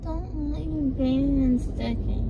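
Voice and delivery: slurred numb-mouth speech; words mushy from anesthesia; numb from the dentist. Real, not acted. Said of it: "I can't move my mouth".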